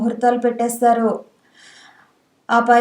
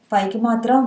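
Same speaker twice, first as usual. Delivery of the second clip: usual speaking voice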